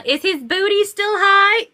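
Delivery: high, rising nosy question; playful mock-grandma inquiry; cheeky grandma. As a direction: imitate grandma asking eagerly.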